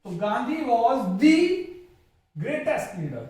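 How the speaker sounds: 'the' said as a stressed 'dee'; stressed dee. Shown as a demonstration. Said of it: "दी पे यहां पे जोर पड़ेगा".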